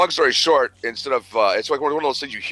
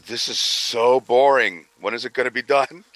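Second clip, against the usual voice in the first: whiny bored daughter; 3 semitones higher, 4 dB louder, slower than usual. Retold or imitated. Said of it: "She goes".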